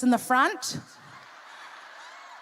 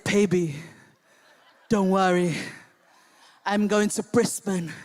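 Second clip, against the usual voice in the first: put-on Tongan accent; 7 semitones lower than usual. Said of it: "he had a Tongan accent back then".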